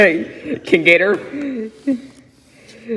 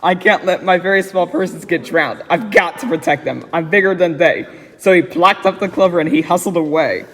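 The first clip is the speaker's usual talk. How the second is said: put-on reading a rhyming story aloud to a child. A narrator's reading. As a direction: read it like a bedtime book. Reads Seuss story aloud.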